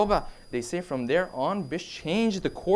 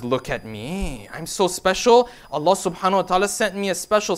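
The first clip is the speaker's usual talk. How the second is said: mock self-importance. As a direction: imitate someone showing off. Mocks a self-important believer.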